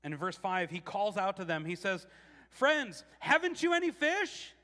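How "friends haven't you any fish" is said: high, loud call across the water. Acted. Jesus calling to disciples on the boat, loud high call. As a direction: shout it out to the boat.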